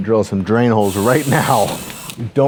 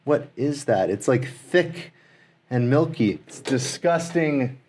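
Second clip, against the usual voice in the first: hushed disgust; 7 dB quieter than usual. Real, not acted. Disgusted by rotten goo.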